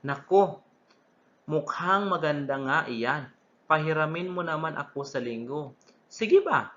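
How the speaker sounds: put-on excited child voice. Classmate's reply in dialogue.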